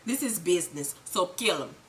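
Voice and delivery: low, quiet deadpan order; lightly voiced calm killer; cold Milan. Recapper voicing Milan ordering a killing, low and cold. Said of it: "And Milan says".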